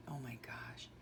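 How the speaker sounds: breathy whisper of awe; whispered oh my gosh. Real, not acted. Mother whispering over her daughter's baby photos, awed.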